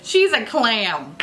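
drawn out slowly and deadpan. Retold or imitated. Telling a friend her odd nickname, slow and deadpan. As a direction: say it slowly as a plain verdict. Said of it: "but I was like".

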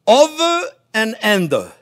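over and under, drawn out slowly; slow demo. Shown as a demonstration. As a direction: spell out each word slowly for the learner. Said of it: "and you go".

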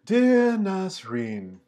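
a hint of Peggy reading her letter aloud. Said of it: "try it in my best Peggy voice".

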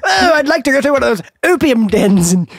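lightly hammed-up old-timey voice; old-fashioned speaker. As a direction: play at being someone from a bygone age. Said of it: "like, they'd be like".

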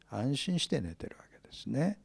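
息だけで囁く; 眠るペテロを起こさないように囁いて; whisper. Acted. Whispered aside about sleeping Peter. (安心して眠る様子をひそひそ声で)

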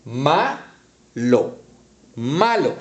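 "malo" said slowly and drawn out, as one whole word; blended word. Shown as a demonstration. Teacher modelling the word for young readers. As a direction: read "malo" out joined together. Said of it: "y todos lo unimos y decimos".

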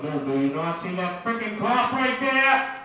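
a hint of alarm, pushed up high. Warning his buddy about the cop, alarmed.

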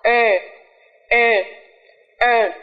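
long "e" drilled three times; teacher drilling the long er vowel; model vowel sound. Shown as a demonstration. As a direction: stretch the "e" long. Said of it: "đây là âm ơ dài".

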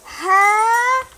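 loud, high startled "Huh?"; shocked huh. Real, not acted. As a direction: jolt it out in disbelief. Sudden shock in game.

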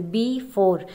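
slow "बी फ़ोर", weight on "फ़ोर"; stress on second syllable. Shown as a demonstration. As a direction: pronounce "बी फ़ोर" slowly so "फ़ोर" carries the stress. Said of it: "इस पे ज़्यादा stress है". ("बी फ़ोर" धीरे बोलते हुए "फ़ोर" पर ज़ोर)

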